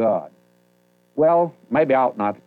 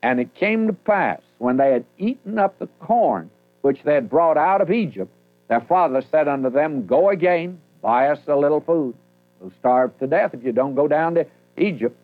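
raised, solemn reading of the King James text; scripture reading; 3 semitones higher than usual. Acted. Preacher reads the famine verses to the congregation, solemn and raised.

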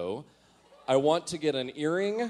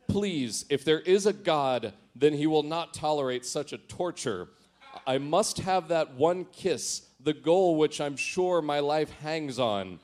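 hammed-up pleading, a bit louder; melodramatic; 3 dB louder than usual. Teen diary begging God for a kiss, melodramatic. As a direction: plead to God like a tragic hero. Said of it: "this gets melodramatic now".

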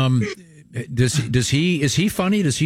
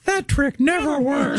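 high, slow cartoon moose voice; goofy cartoon moose; Bullwinkle voice; 14 semitones higher, slower than usual. Cartoon quote Rocket J Squirrel.

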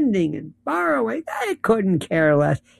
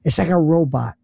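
mocking dismissive. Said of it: "I love when people say".

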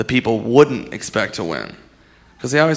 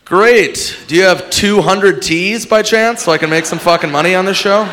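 sarcastic contestant; 5 semitones higher than usual. Retold or imitated.

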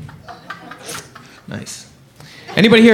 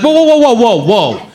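stopping her; 5 semitones higher than usual. Retold or imitated. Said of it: "and I was like".

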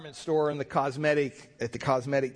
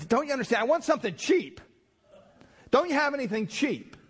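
exasperated yell; 10 semitones higher than usual. Retold or imitated. Frustrated customer demanding cheaper perfume.

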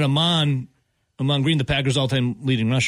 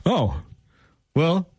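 wife's reply; 4 semitones higher than usual. Retold or imitated. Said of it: "she goes".

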